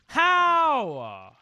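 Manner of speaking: high, loud, long wail; anguished disbelief. Real, not acted. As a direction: wail the word out in frustration. Disbelief at losing in game.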